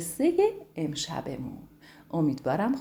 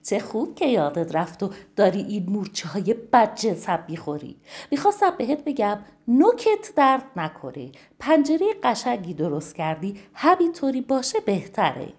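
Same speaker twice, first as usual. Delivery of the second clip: laughing mouse; 2 semitones higher, 6 dB louder than usual. Acted. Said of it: "خندید و گفت".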